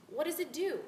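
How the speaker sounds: nosy classmate. Acted. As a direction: ask it like a puzzled child. Schoolchild quizzing a newcomer.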